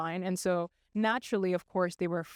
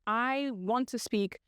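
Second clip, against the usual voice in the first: mock indignant demand, each word spaced out; retold customer complaint with measured insistence; upset caller; 2 semitones higher than usual. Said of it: "she's really upset".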